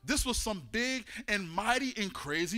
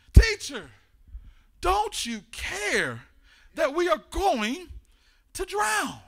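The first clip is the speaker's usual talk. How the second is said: loud, higher, frightened plea to the teacher; terrified shout; 6 semitones higher, 7 dB louder, slower than usual. Acted. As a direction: shout it like men about to sink. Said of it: "They're shouting, they're screaming, they're terrified".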